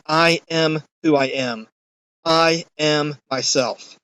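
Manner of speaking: slow, deliberate stress on each word of "I am myself"; emphatic. Acted. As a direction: make "I am myself" a weighty, spaced-out declaration. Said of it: "That very emphatic".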